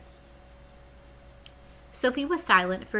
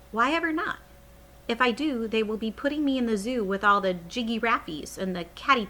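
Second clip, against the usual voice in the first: alarmed giant; 4 semitones higher, 3 dB louder than usual. Acted. The BFG fearing the zoo.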